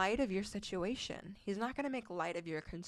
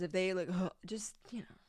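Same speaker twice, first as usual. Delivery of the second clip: mock dismissive huff. Mimicking a man rolling his eyes.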